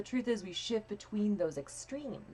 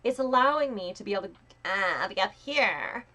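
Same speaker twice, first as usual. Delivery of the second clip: pinched nasal voice; 4 semitones higher, 6 dB louder than usual. Shown as a demonstration. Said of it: "it's not high pitched".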